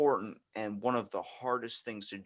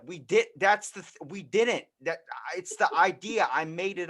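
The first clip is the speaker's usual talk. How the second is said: higher, louder flustered backpedal; a hint of guilty excitement; sheepish excited explanation; 7 semitones higher, 6 dB louder than usual. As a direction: babble it out, caught but proud. Explaining the made-up trip to mom.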